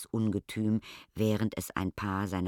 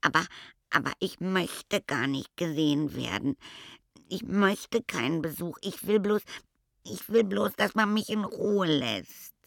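hoch, stockend und verzweifelt; flehender Stichkopf; 10 semitones higher, 4 dB louder than usual. A narrator's reading. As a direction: bitte darum, allein gelassen zu werden. (hoch und flehend, stockend)

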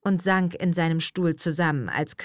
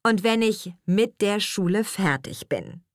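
teacher carefully weighting "mit der"; correcting stress on MIT DER; 4 semitones higher than usual. Acted. Teacher corrects missing small words.

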